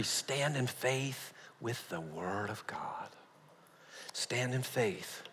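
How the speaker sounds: slow, soft whispered emphasis; solemn whisper; whispered point. Real, not acted. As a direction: hush and slow down. Hushed point statement.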